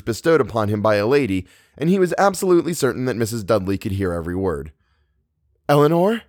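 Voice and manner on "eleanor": high, rising name call; raised questioning voice. A narrator's reading. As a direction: call through a closed door. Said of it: "Now Theodora pounded on the connecting door".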